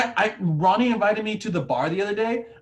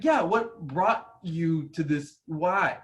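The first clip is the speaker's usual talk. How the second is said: curious ask; slower than usual. Retold or imitated. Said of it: "I'm trying to ask".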